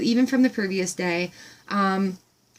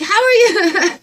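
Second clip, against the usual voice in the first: much higher, amazed; thrilled squeal; 10 semitones higher, 6 dB louder, slower than usual. Retold or imitated. Retelling her delight to the farm woman, squealing high. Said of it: "I'm like".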